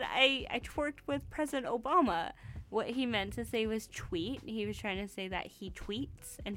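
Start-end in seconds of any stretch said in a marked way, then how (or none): 0.0-2.3 put-on light Canadian accent, a bit higher; retelling it in a hint of Harper; mock Canadian Harper accent. Imitating Harper's Canadian accent retelling the gaffe. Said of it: "That's my Canadian Harper accent".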